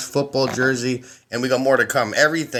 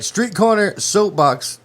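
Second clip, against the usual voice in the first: high, slow stretched show-name call; announcer voice; 7 semitones higher, slower than usual. Acted. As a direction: sell the name like a boxing announcer. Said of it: "got a official fucking announcer voice".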